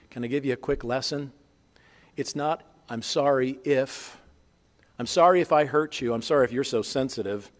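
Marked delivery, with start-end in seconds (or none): 2.9-7.5 fake apology. Shown as a demonstration. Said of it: "That's not a biblical apology".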